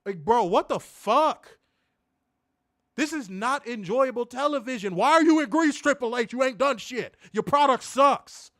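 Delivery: angry rant. Real, not acted. Host yelling at Triple H about Greece, angry and loud. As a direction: bark the complaints at Triple H. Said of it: "I have not had a rant in a minute".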